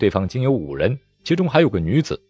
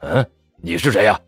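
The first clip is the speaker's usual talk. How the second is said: startled question. Acted. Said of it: "忍不住一惊".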